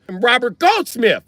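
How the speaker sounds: high, slow mock Jewish robber; Jewish guy. Jewish robber naming himself to victim, high slow voice. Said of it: "if a Jewish guy be like".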